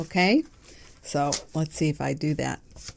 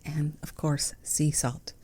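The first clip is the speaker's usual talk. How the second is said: whisper; 2 semitones lower, 6 dB quieter than usual. Acted. Playful aside about her tea.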